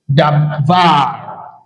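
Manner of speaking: davar with the stress on its final VAR; stress on last syllable. Shown as a demonstration. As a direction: say davar slowly, leaning on the long last syllable. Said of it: "on this word is on the last syllable".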